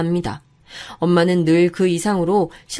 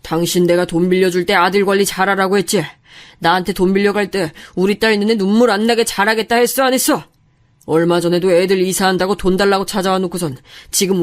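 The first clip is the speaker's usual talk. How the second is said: angry father. Acted. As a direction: dress her down like an outraged father. Father confronts mother-in-law.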